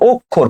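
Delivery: "অক্ষর" said as ok-khor, doubled kh; demonstrated pronunciation. Shown as a demonstration. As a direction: show how "অক্ষর" sounds: ok-khor. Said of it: "উচ্চারণটা কি হবে".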